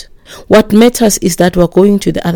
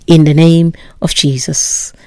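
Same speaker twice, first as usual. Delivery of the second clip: whispered; 2 semitones lower than usual. Acted. Preacher whispers faith's declaration.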